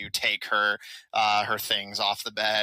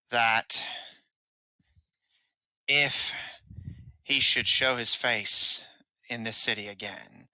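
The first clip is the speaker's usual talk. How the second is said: threatening captive woman. Acted. Captive woman sending a warning to the boy, coolly threatening. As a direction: measure out the threat piece by piece.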